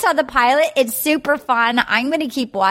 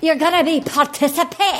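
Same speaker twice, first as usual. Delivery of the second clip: put-on Scottish accent; 4 semitones higher than usual. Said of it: "do that Scottish accent".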